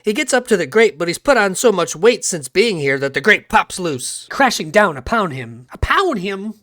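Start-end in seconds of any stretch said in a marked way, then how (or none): 5.7-6.5 higher, questioning echo. Acted. Narrator echoing his own words, higher questioning tone. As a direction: echo it as a lead-in to a song.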